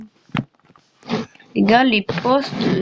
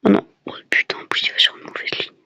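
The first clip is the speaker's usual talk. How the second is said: whispering; faster than usual. Real, not acted. Dismay muttered under breath.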